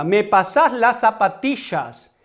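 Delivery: Rioplatense "zapatillas" with the ll as sh; Rioplatense yeísmo. Shown as a demonstration. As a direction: show the River Plate yeísmo in "zapatillas". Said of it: "Fíjense el yeísmo". (yeísmo rioplatense en "zapatillas")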